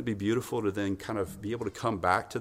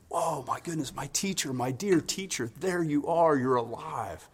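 tender, wondrous cry, pitched up; tender wonder; 4 semitones higher than usual. Acted. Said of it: "real kind of tender, wondrous way of talking to him".

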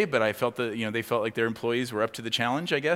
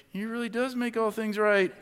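laughing; 10 semitones higher than usual. Retold or imitated. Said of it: "I was like".

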